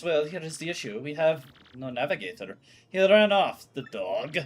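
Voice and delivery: grand, showy voice of a vain ship owner; a hint of a boastful captain gushing over his ship; pompous ship owner. Ship owner gushing to Mario, grandly voiced.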